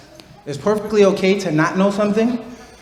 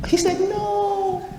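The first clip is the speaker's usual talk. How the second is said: laughing; 13 semitones higher, 7 dB quieter, slower than usual. Real, not acted. Child refuses, teacher laughs.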